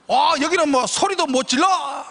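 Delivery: laughing mock protest. Coach complaining in argument.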